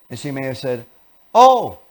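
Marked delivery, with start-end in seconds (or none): 1.3-1.8 high, loud startled "oh"; startled awake. Retold or imitated. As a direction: pipe up as if just woken. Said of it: "almost like you woke her up".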